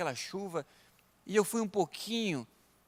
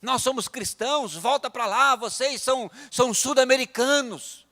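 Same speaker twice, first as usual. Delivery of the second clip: mildly heated mock scolding; raised-pitch retold jeer; retold insults; 5 semitones higher, 4 dB louder than usual. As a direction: imitate a hostile local telling foreigners off. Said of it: "xingar, falar assim".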